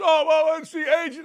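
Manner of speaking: high, mocking columnist voice; high mock voice of a know-it-all columnist. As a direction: sneer it in a high, dismissive tone. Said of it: "like the Indy Star columnist".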